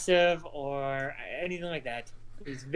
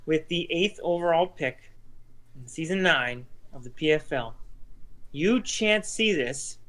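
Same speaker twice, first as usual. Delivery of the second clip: draft announcer. Acted. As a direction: announce it like a league commissioner. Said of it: "announce your pick".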